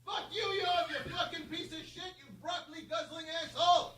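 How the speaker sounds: mean on request. Shown as a demonstration. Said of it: "Danny, go really mean".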